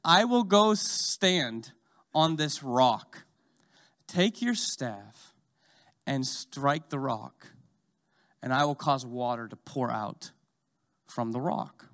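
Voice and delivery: slow, solemn voice of God; measured divine command, word by word; voice of the Lord. Retold or imitated. The Lord calmly instructing Moses to strike the rock. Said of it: "and the Lord says".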